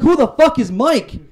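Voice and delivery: indignant mock outrage. Boyfriend mishearing his girlfriend's story, slow, high, outraged question. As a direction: hit it like a baffled, offended boyfriend. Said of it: "I'm like".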